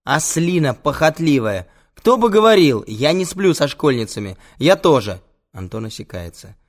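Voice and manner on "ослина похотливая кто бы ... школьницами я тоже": loud, high indignant outburst; heated shouting match; angry quarrel. Acted. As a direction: fling insults and denials in a row. Heated quarrel between the friends.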